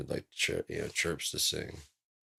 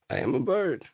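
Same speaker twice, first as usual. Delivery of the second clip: much higher, louder bird voice; proud bird; 11 semitones higher, 8 dB louder than usual. Pretend. A bird boasting of being a bird, much higher and louder.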